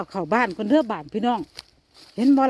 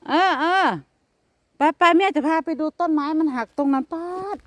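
calling to pet; 6 semitones higher, 3 dB louder than usual. Real, not acted. Talking loudly to cat outdoors.

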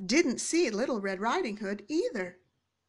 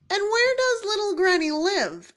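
sly wolf; 9 semitones higher than usual. A narrator's reading. Wolf scheming.

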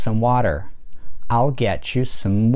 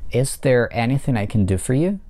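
is there anything I can do for you with do stressed, rising at the end. Shown as a demonstration. Teacher models a yes-no question stressing do. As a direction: lean on do and lift at the end. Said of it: "под ударением находится глагол do".

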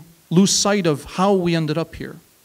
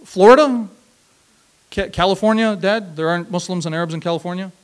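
playful mock disbelief, pitched higher; higher, teasing incredulous questions; 4 semitones higher, 4 dB louder than usual. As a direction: rib your dad with fake shock about his choice. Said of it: "I still tease him about it".

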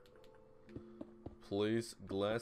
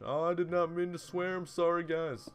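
high, loud, startled backpedal; flustered apology; 10 semitones higher, 7 dB louder than usual. Real, not acted. Player to viewers after accidentally swearing, flustered apology. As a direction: blurt the apology loudly, pitched way up.

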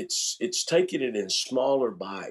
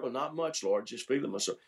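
sheepish reply; 5 dB quieter than usual. Acted. Acted sheepish answer to the Lord.

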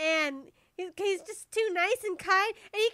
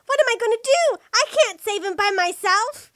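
high, loud cry of dismay; squeaky panic; 4 semitones higher, 8 dB louder than usual. Acted. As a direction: wail it helplessly, voice squeaking up. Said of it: "I squeaked".

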